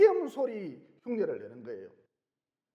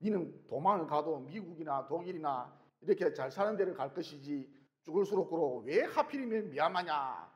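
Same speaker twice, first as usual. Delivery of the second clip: teasing laugh; 3 semitones lower than usual. Retold or imitated. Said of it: "저를 놀리는 거예요".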